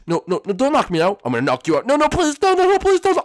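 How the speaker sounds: put-on a kid begging the villain not to hit him; terrified begging.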